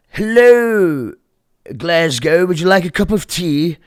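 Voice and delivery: mock rapper. Imitating a rapper's clueless greeting.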